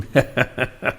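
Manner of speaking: a short soft chuckle; wrestler's chuckle. A narrator's reading. Wrestler laughing at the boy, soft chuckle. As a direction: chuckle quietly, amused. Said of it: "असं करून पैलवान हसे".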